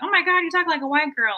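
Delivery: high, bubbly Valley girl impression; mock Valley girl voice. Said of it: "the comments I get on my channel are always like".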